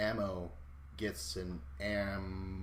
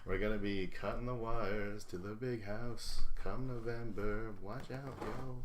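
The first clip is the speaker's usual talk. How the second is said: mock chain gang prisoner. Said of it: "something like that".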